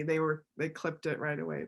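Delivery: softly whispered, almost to himself; real hushed whisper, not meant for all; whispered aside. Real, not acted.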